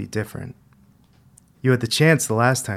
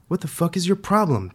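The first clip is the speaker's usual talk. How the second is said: high-pitched yelled challenge; kid's indignant yell; 9 semitones higher, 3 dB louder than usual. A narrator's reading. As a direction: voice shooting up in outraged protest. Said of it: "the kid yelled".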